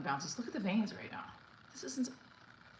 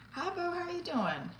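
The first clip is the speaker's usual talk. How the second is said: excited; 11 semitones higher than usual. Real, not acted. Greeting a viewer on stream.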